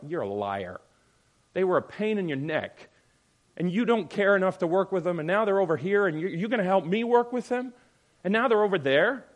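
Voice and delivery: rising indignant retort; building rebuke. Retold or imitated. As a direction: call out the liar, building heat. Acted rebuke of another pastor.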